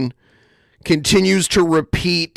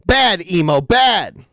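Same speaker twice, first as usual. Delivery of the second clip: scolding a dog; 3 semitones higher, slower than usual. Pretend.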